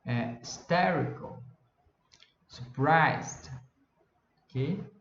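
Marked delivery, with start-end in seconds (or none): 0.4-1.4 hysterical drawn out, STE raised; slow teacher's demo of hysterical, stressed on STE; stress on second syllable. Shown as a demonstration. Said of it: "Você dá uma subida no". 2.5-3.5 surprised with PRISED leaned on; teacher's demo of surprised, stressed on PRISED; stress on second syllable. Shown as a demonstration. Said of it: "Você dá uma subida no".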